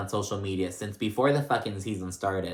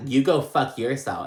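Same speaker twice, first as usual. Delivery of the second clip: hitting right back; 4 semitones higher, 4 dB louder than usual. Retold or imitated. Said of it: "Sutton hits right back".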